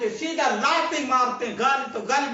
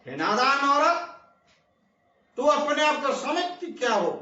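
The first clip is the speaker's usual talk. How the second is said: angry rebuke; 2 semitones higher than usual. Acted. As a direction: berate the scheming woman with mild heat. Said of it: "गुस्से से बोले".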